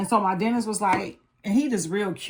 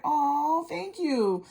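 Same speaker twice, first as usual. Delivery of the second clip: flattered aw; 8 semitones higher, much slower than usual. Retold or imitated. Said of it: "I was like".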